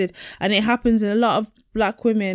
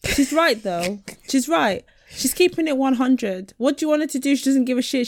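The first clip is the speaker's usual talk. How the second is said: sarcastic agreement; 4 semitones higher than usual. Real, not acted.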